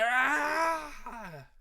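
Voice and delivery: high, drawn-out villain's scream; acted scream. Redneck vampire burns at sunrise, acted scream. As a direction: wail as if burning, hammed-up.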